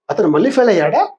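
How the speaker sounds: surprised question with a rising end; lightly acted disbelief; mild surprise. Shown as a demonstration. Teacher voicing someone hearing of a second failure, mildly surprised. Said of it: "ఆశ్చర్యాన్ని వ్యక్తపరుస్తుంది".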